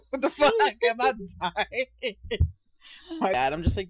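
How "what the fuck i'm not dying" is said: exasperated dad. Retold or imitated. Startled dad yells back, retold.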